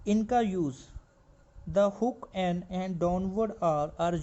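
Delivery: reads the rule out slowly, word by word; slow dictated reading. Acted. Teacher to steno students, reading the rule slowly word by word.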